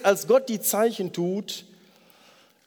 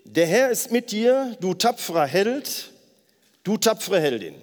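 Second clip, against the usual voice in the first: loud together; 2 semitones higher than usual. Shown as a demonstration. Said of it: "sagen wir einmal gemeinsam".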